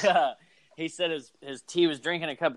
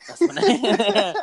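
mock Stone Cold; 7 semitones higher, 6 dB louder, slower than usual.

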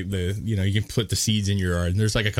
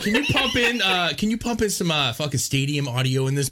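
dying Bill Clinton voice; 6 semitones higher than usual. Retold or imitated. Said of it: "He's like".

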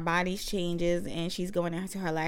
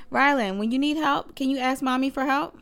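sweet mommy voice; 5 semitones higher, 3 dB louder than usual. Real, not acted. Mother sweetly asking her four-year-old for help. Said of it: "I'm sitting here with Rylan".

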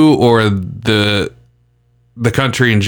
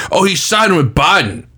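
higher-pitched mock complaint; mocking complainers; 7 semitones higher than usual. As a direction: imitate the people griping. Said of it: "They're like".

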